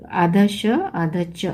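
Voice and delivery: आधा श आधा च said slowly and deliberately; slow emphasis. Shown as a demonstration. Teacher explaining the sound to students, slow. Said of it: "श च की आवाज़ आएगी".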